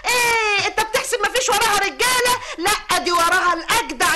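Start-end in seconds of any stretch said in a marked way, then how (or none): 0.1-2.4 tearful shouting order; wife shouting at the cheat through tears, angry. Acted. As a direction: yell at him through tears. Wife drags the man out.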